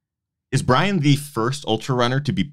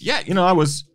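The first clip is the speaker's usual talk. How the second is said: imagined cop telling coworkers; 5 semitones higher than usual. Pretend. Imagined cop retelling at station.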